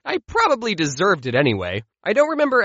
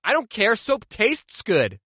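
put-on defiant kid; 3 semitones higher, slower than usual. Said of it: "And I said".

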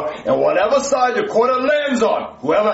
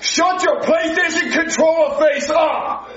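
angry shout; 6 semitones higher than usual. Acted. Host yells insult at cop.

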